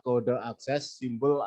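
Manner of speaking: normal talking voice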